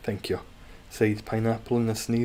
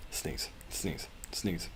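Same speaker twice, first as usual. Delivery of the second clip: whisper; 2 semitones lower, 9 dB quieter, much slower than usual. Pretend. Teasing the pineapple game rule.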